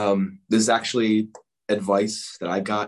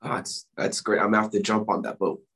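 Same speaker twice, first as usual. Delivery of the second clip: hoarse, voice almost gone; losing voice, raspy and breathy; raspy whisper. Real, not acted. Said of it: "I'm losing my voice here".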